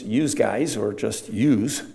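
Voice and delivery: lightly voiced Philly "yous guys"; a hint of Philadelphia accent. Shown as a demonstration. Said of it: "in Philadelphia".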